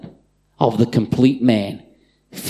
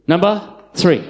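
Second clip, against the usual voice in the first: "three" said higher and corrected; 6 semitones higher than usual. Shown as a demonstration. Preacher correcting himself, higher on "three". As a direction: fix the count on "three". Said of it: "Sorry, number two".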